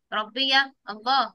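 put-on slow, clear answer for the kids to copy; slow model answer. Shown as a demonstration. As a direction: say it slowly so they repeat it. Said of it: "تقول لي إيه؟". (إجابة نموذجية ببطء)

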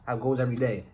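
licking fingers between words; talking while eating. Real, not acted. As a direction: mouth partly full. Seen 2: Fingers at lips and food in reach; chewing itself unclear.

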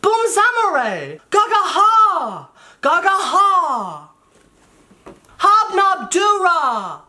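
high, slow, loud simlish babble; Sims gibberish. Pretend. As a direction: babble like a helpless Sim. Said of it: "a sim who just peed on the floor".

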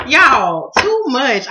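loud, laughing almost to tears; real laughter; laugh-crying. Real, not acted. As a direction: overcome with laughter. Still laughing at son.

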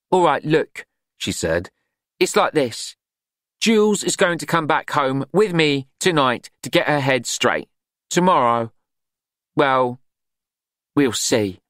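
lightly voiced brisk cook; Glenda voice. A narrator's reading.

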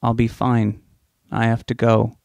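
flat monotone delivery. Acted. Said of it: "said in a monotone voice".

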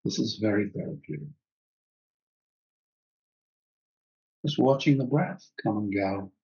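calm, unhurried phrases with long pauses; guided breathing meditation. Real, not acted. Teacher guiding students to just follow the breath, calm meditation voice. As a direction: guide them gently into watching the breath.

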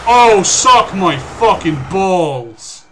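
loud, slow furious curse; angry yell. Real, not acted. Killed again, raging.

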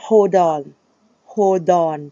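"hold on" run together as "hol-don"; linked hold-don. Shown as a demonstration. Singing teacher showing how English lyrics link words, "hold on" joined as "hol-don". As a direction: carry the D of "hold" into "on". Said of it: "เพราะมันจะเชื่อมซิงค์ระหว่างตัว D".

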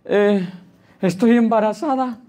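high, distressed plea; imitated crying. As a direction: imitate a tearful woman pleading for help. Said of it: "llorándome". (imitando un llanto angustiado)

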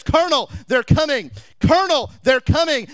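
loud, high, urgent call from the treetop; urgent warning shout. Acted. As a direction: shout the alarm down to the colonel. Boy scout warning the colonel.

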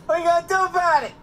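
fast, loud, high taunt; excited fast shout. Real, not acted. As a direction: blurt it out quickly. Startled gamer shouting fast.

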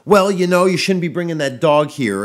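high, loud indignant owner voice; hammed-up defensive dog owner; mocking defensive owner. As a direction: imitate the owner snapping back. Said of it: "It's met with a, like".

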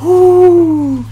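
loud high cry of loss; loud high groan of defeat; anguished shout. Real, not acted. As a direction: yell as the win slips away. Loses at the finish line.

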